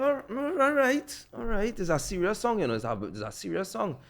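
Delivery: mock hesitant voice, easing down at the end; hesitant agreement. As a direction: imitate someone warily agreeing. Retells man hesitantly accepting the song.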